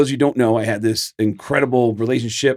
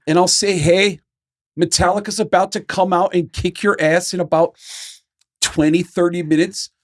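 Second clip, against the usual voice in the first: upbeat, pitched-up mock announcer; put-on stage introduction, higher voice; imitating a rock drummer; 5 semitones higher than usual. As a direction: pitch the crowd like a well-meaning rocker. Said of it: "he thought he was doing me a solid".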